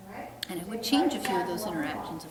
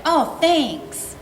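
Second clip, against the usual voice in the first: higher and louder, relieved little dog; lightly voiced thankful dog; grateful dog voice; 7 semitones higher, 12 dB louder than usual. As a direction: voice a dog happy for the help. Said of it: "they're like".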